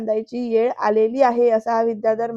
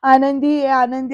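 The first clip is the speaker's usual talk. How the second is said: calling out; 5 dB louder, slower than usual. Retold or imitated. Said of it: "असं म्हणत धावत धावतच जातात".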